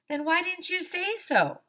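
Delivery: high, indignant question; indignant kid. Acted. AJ challenges Woodsy, high indignant kid voice.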